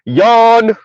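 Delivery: spoken yawn, bored and dismissive. Retold or imitated. Mock bored response.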